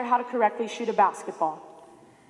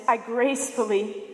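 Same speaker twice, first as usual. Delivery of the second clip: gracefully drawn out slowly with ironic weight; stress on gracefully. Shown as a demonstration. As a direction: lean on gracefully, slow and wry. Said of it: "emphasis on the word gracefully there".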